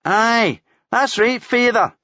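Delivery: sudden shrill-ish cheeky cry; yelped. A narrator's reading. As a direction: yelp it back at him mockingly. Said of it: "the wee shite yelped".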